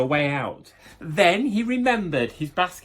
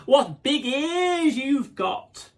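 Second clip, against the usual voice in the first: high, slow wonder; wondering child; 10 semitones higher, 4 dB louder, much slower than usual. Acted. Little Red wondering at the wolf's ears, high and slow. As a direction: marvel at the ears slowly.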